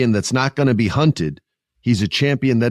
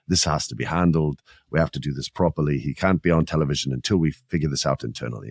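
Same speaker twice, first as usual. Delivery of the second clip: lower-pitched mock British accent; 7 semitones lower, 4 dB quieter than usual. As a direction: put on a British official's voice. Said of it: "He said it with a British accent".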